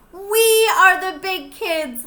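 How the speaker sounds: put-on slow, proud cheer of a child; proud kids. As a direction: announce it like a proud little kid. Children's proud answer in story.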